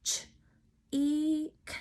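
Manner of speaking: "Ch, E, K" as separate sounds, ch, ee, k; sounded out. Shown as a demonstration. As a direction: say each sound of cheek alone with pauses. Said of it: "How many sounds?".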